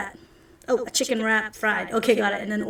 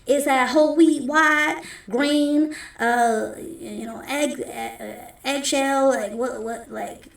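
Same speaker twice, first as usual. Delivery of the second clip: louder, higher rattling off breads; chatty cook; 3 semitones higher, 4 dB louder than usual. Acted. Anna quizzing the customer on bread, brisk and loud. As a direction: fire off the options brightly.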